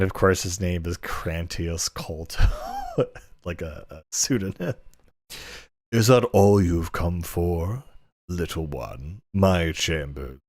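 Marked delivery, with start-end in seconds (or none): 5.9-10.4 slow, leering master voice; lightly voiced lecherous lord; suggestive master. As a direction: draw it out like a sleazy nobleman. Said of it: "inappropriate voice I can muster".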